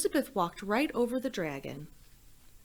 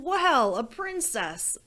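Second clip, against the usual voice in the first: big, loud dragon drawling his words, higher; a greedy dragon sizing up his meal; hammed-up storybook dragon; 6 semitones higher, 5 dB louder, slower than usual. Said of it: "And the dragon said".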